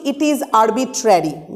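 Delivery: slow, stress on is; slow read. Shown as a demonstration. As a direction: dictate slowly. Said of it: "যেটা বলা হচ্ছে যে আমরা বলছি". (ধীরে ধীরে বলা)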